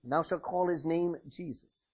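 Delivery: measured, solemn reading of scripture; solemn Bible reading. Acted. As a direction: read it like the King James text. Scripture reading opening sermon.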